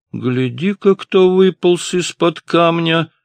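high, loud, slow jeering call; mocking exclamation. A narrator's reading. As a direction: call out across the diner, sneering. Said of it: "воскликнул парень". (насмешливо, громко и протяжно)

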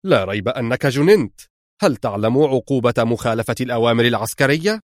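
mildly heated rebuke; angry outburst. Acted. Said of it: "صاح خيري في غضب". (غضب معتدل)

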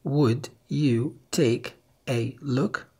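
Would you take a look said slowly, each word clear; slow dictation; slow careful reading. Shown as a demonstration. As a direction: stretch out the question. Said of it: "هل سمعت".

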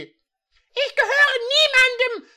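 high, loud and slow, every word firm; hammed-up high defiant declaration. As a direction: declare it with unshakable resolve. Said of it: "mit fester Stimme".

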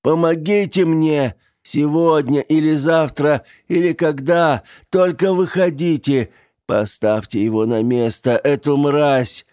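high, loud pleading cry; desperate cry. Acted. The dying man cries to the graves, high and loud. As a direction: cry out to the dead for justice.

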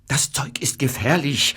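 whispered warning, voice dropped; urgent whisper. Acted. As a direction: hush it like a grave secret. Pharmacist warns addict.

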